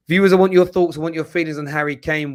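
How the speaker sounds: calling out to viewers. Real, not acted. Host calling out to live viewers.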